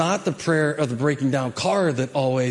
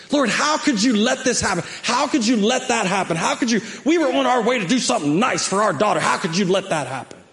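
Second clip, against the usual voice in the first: higher, pleading how could you; mock complaining prayer; 5 semitones higher than usual. Pastor replaying his own angry prayer to the congregation, higher and pleading. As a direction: complain to God like he failed you. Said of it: "That's the way we pray".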